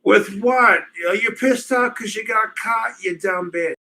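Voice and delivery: snapping at a caller on the line; irritated retort. Real, not acted. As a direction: fire back annoyed. Arguing with a caller.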